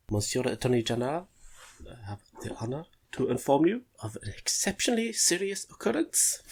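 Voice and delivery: put-on careful French accent drifting German; tentative Franco-German accent; German-tinged French accent. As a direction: try earnestly for French, slip into German. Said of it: "It's still going very German".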